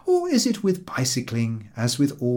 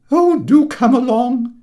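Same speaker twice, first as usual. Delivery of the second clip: higher, louder, exasperated call; tired impatient call; 12 semitones higher, 9 dB louder than usual. A narrator's reading. Old lady calling her milk-cart dog on, tired and impatient. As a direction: hurry the dog on, fed up. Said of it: "says the old lady, who is tired and hot".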